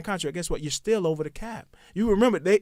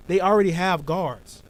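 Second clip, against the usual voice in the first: buzzing phone interference. Real, not acted. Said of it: "Your phone too close to the".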